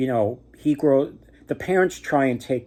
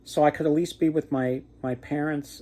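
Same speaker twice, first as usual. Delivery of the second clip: put-on young man pleading; 7 semitones higher than usual. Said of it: "And the young man said".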